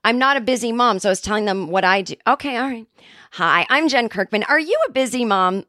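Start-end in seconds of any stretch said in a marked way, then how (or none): 3.3-5.6 chirpy commercial spokesperson read. Shown as a demonstration. Reading an ad to busy moms, upbeat pitch voice. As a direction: sell it like a TV ad host. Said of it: "okay, take two".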